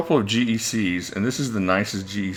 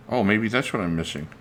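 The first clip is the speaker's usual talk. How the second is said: usual speaking voice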